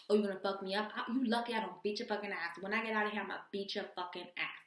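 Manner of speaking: imitated angry threats; mock trash talk. Woman threatening her man on the phone, mock trash talk. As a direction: play her mouthing off, half in earnest. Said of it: "she's just talking mad shit".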